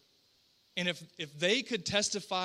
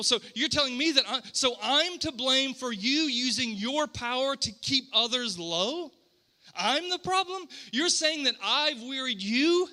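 mildly exasperated, disbelieving questions; frustrated parent; 3 semitones higher than usual. Acted. God answering his people's complaint, mildly frustrated disbelief. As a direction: push back like a parent who's being blamed. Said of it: "a parent being frustrated".

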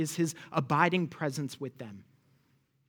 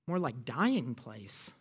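bitter grumble; 5 semitones lower, 4 dB quieter, slower than usual. Acted. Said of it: "You can hear it, can't you?".

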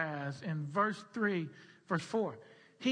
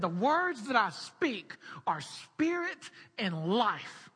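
solemn quote; slower than usual. Retold or imitated. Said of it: "Jesus said".

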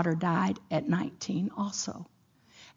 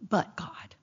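whispered; 8 dB quieter than usual. Acted.

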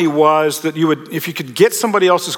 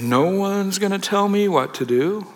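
defiant attitude; 3 semitones higher, 4 dB quieter than usual. Retold or imitated. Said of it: "have this kind of attitude".

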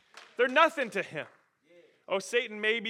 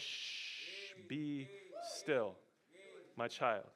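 whispered, much softer and lower hush; God hushing; 5 semitones lower, 10 dB quieter, much slower than usual. Acted. God calming a worried believer, soft whispered hush. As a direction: hush a frightened child.

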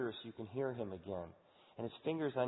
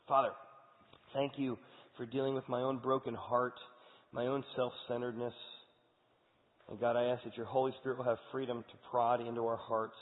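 closing prayer. Acted. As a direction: pray humbly for the congregation. Pastor leads closing prayer.

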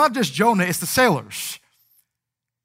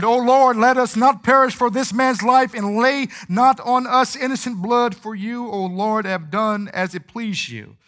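sailors' desperate prayer; 4 semitones higher, 4 dB louder than usual. Acted. Sailors crying out to God.

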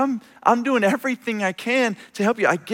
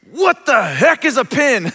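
higher, slower indignant bafflement; baffled caller; 6 semitones higher than usual. Retold or imitated. Lost buyer asking what a pin is, indignant and slow. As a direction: drag out the disbelief.

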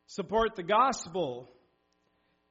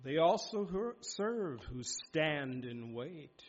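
slow recitation; 3 semitones lower, 4 dB quieter, slower than usual. Acted. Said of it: "John Milton said".

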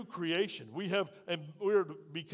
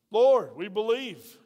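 slow, much louder cry of faith; loud slow declaration; 3 semitones higher, 11 dB louder, much slower than usual. Acted. Disciples crying out to the Lord, loud and slow. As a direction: call out each word slowly and loudly.

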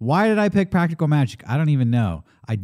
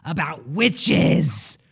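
spooky announcer voice; 3 dB louder, much slower than usual. Acted. Mock horror announcement.

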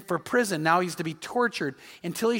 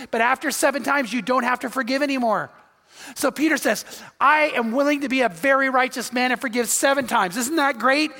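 proud boast; 4 semitones higher, 3 dB louder than usual. Retold or imitated. Preacher builds, Peter boasts.

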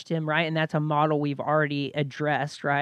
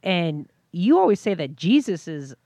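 put-on young son voice; 2 semitones higher, 5 dB louder than usual. Dad voices his young son.

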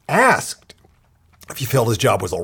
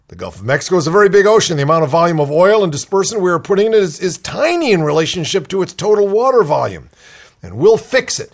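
mimicking the CEO; 7 semitones higher, 3 dB louder than usual. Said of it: "he said".

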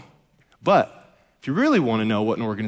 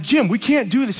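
mock protest; 11 semitones higher, 5 dB louder than usual. Protesting to Jim mid-joke.

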